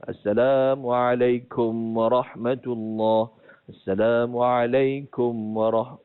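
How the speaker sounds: Assalamualaikum with a kem ending, slow and drawn; slow mispronounced salam; wrong keim ending. Shown as a demonstration. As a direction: recite it with the wrong vowel. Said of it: "bukan kum ya".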